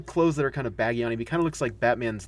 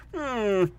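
impression's pouty hmm; 9 semitones higher than usual. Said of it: "that's our impression of the second".

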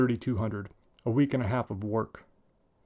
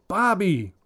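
loud high call of his name; yelling; 8 semitones higher, 5 dB louder than usual. Acted. Mother yelling for her son from upstairs, high and loud. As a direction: call him sharply from another floor. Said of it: "Sandra yells from upstairs".

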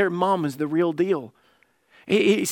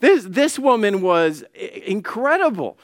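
mock awe; 4 semitones higher, 3 dB louder than usual. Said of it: "we look at this and say".

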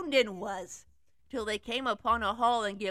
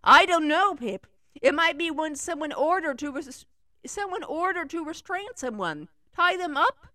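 put-on high girly voice; 5 semitones higher, 7 dB louder than usual. Girl voice loud.

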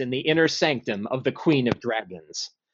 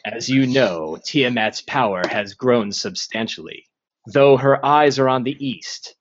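ancient rasping undead king; 2 semitones lower than usual. Acted. DM voices the lich Zastam.

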